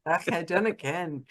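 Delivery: amused copy of a Scottish phrase; attempted Scottish accent. Shown as a demonstration. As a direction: echo it in amateur Scottish. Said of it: "I don't even sound Scottish doing it".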